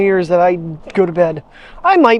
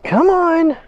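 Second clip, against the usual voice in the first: whisper; 10 semitones higher than usual. Real, not acted. Owner whispering to coax her dog along. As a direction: breathe it to the dog.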